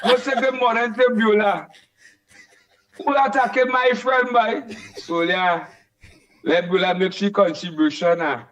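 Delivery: lightly faked man's voice, laughing through it; playfully deepening her voice to pass as a man; put-on man voice. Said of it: "I put on my man voice now".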